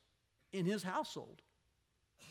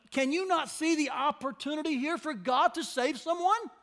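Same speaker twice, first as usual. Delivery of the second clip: high, loud laughing disbelief; laugh, then burst out high and loud in disbelief; laughing exclamation; 8 semitones higher, 6 dB louder than usual. Real, not acted.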